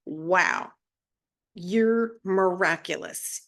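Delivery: gentle, slow wonder at your own body; tender praise. Pretend. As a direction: speak to your body like a proud friend. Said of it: "when you truly say to your body".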